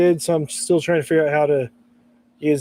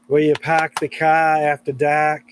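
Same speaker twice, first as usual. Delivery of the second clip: mock Massachusetts accent. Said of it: "she had that Massachusetts accent".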